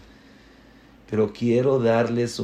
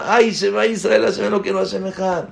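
exclamación aguda y fuerte de asombro; suéltalo como quien se asombra de algo; asombro exclamado; 8 semitones higher, 4 dB louder, faster than usual. Retold or imitated. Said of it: "la persona se asombra". (alguien asombrado ante algo: grito de asombro más agudo)

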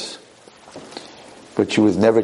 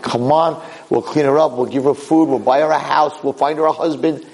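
pleading advisors; 4 semitones higher than usual. Retold or imitated.

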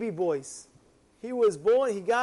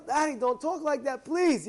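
higher, begging please; pleading son; 5 semitones higher than usual. Acted. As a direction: son brushing off the talk of death.

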